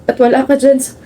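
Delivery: tearful, halting grief at a friend's coffin; crying. Acted. Grazel grieves her best friend in her sleep, tearful. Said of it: "Grazel, you're crying".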